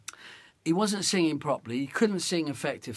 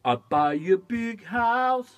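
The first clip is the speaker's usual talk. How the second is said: dumbest relaxed vibe; 5 semitones higher, 5 dB louder, slower than usual. Shown as a demonstration. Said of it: "be in the dumbest".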